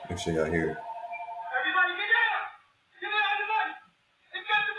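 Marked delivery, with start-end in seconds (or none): 1.6-4.7 frantic shouting hostage taker. Retold or imitated. Robber clip audio played or imitated.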